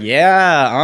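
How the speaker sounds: high, loud party whoop; party cheer. Retold or imitated. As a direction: cheer like you're on the dance floor. Partying at the gay club.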